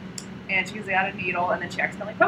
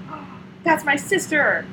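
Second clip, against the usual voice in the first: mock outrage; 8 semitones higher, slower than usual. Sorceress finds her sister attacked.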